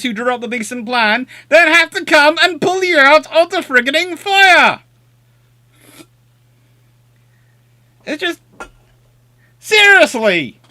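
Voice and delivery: a real rant building to near shouts; exasperated rant. Real, not acted. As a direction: vent your fury at the generals. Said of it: "the Crete rant".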